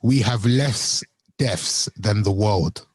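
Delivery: slow, low deadpan quote; straight-faced. Retold or imitated. Co-host quoting the Trump clip to friends, straight-faced. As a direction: drag it out low, imitating a straight-faced claim. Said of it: "with a straight face".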